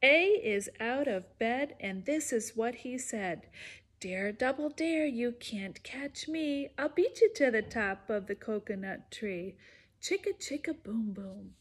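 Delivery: sing-song storybook read-aloud; lively read-aloud rhyme voice; reading to children. Acted. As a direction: bounce the rhymes for little listeners. Reads picture book to kids.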